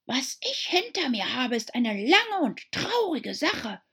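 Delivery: a sad little sigh of a tale. A narrator's reading. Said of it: "sagte die Maus seufzend".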